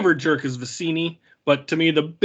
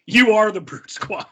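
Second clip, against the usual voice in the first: raised, incredulous-sounding movie quote; Miracle Max; 6 semitones higher than usual. Retold or imitated. Fan quoting the film's comeback to friends, lightly acted higher voice. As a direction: lightly imitate a film character's comeback. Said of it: "Miracle Max looks at him and just goes".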